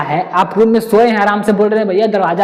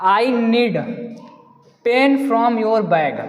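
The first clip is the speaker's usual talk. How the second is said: slow question read; much slower than usual. Shown as a demonstration. Reads question slowly.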